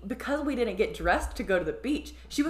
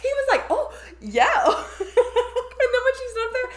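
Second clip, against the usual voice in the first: high, giggly voice through laughter; words broken up by giggles; laughing while talking; 5 dB louder, slower than usual. Real, not acted. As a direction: talk through real laughter.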